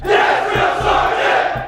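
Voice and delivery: yes sir military replies. Real, not acted. Recruits shout reply in chorus.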